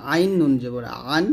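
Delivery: "আইন নুন জবর আন" with the ain squeezed in the throat; pressed ain. Shown as a demonstration. Teacher showing learners the letter ain, pressed pronunciation. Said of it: "চাপ দিয়ে বলবেন".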